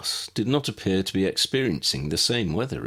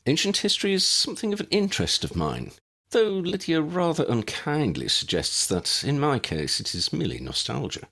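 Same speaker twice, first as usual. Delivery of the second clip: put-on old gentleman; 8 semitones higher than usual. A narrator's reading. Ambrose voiced by the reader.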